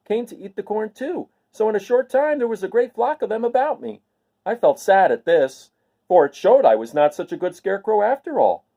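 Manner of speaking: a proud, earnest straw man recalling his making; Scarecrow voice. Acted.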